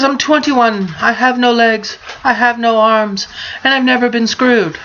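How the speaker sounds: put-on high weepy girl voice; crying girl voice.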